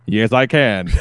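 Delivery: low, mock robot reply; a hint of machine voice; lightly voiced robot. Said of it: "And he's like".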